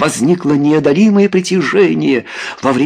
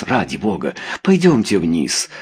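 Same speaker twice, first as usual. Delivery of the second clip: coaxing; 6 semitones lower than usual. A narrator's reading. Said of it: "уговаривал он".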